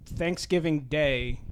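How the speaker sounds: slow, emotional halting words; fighting back tears; choked up. Real, not acted. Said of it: "getting choked up".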